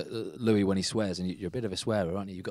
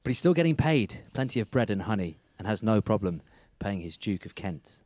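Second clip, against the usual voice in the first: scripted show intro. Acted. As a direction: deliver a rhyming-slang intro like a show host. Host continues scripted intro.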